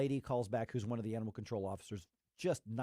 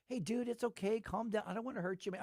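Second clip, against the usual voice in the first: soothing; 8 semitones higher, 4 dB quieter than usual. Retold or imitated. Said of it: "I'm trying to reason with a bat".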